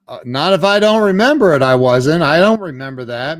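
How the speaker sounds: arguing back at the friend; defensive protest. Retold or imitated. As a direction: protest defensively, a bit rattled. His defensive answer.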